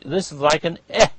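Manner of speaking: "E" as a short "eh". Shown as a demonstration. Teacher giving the base vowel, short E. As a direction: cut the E short, as in "bet". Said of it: "You're pronouncing an E".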